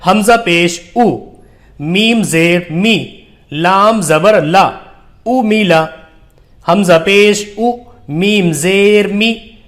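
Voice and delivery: slow, measured recitation with long-held letter names; drawn-out teaching recitation; Qaida spelling drill. Shown as a demonstration. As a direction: spell it out deliberately for beginners to repeat.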